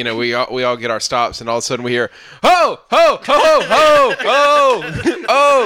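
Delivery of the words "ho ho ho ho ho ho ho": high loud ho ho calls; wordless yelling. Retold or imitated. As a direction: shout ho over and over, pitched far up. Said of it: "not saying any words".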